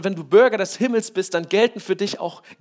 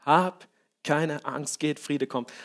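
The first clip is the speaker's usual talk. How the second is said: slow, softer reassuring voice; calm reassurance; 4 semitones lower, 6 dB quieter, slower than usual. Acted. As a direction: soothe a frightened servant gently. Prophet calms his servant. (ruhig beruhigend, langsam und leise)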